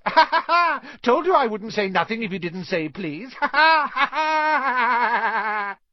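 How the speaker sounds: loud high cackling; cackling laughter. A narrator's reading. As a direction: cackle in triumph. Peeves mocking laughter.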